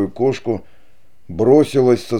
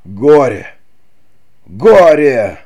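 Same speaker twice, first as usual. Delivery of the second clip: loud, high anguished cry; despairing cry; 4 semitones higher, 8 dB louder, much slower than usual. A narrator's reading. Don Pedro, learning of his children, cries out in despair. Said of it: "вскричал Дон Педро".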